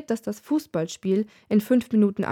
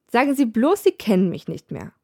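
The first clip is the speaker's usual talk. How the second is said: mock indignation. Barmaid teasing Death, acting mildly offended. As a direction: tease him with fake offense. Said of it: "Sie tut empört".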